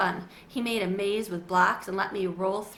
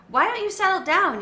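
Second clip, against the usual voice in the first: higher, louder, gently firm mum; mother's voice; 9 semitones higher, 7 dB louder than usual. A narrator's reading. Mother calming her sons, gently firm. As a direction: settle the boys down.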